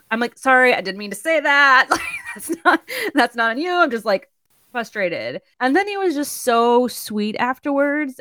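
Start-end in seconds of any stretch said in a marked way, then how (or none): 0.4-5.4 high-pitched retold apology with a laugh; flustered apology. Retold flustered apology to shop worker.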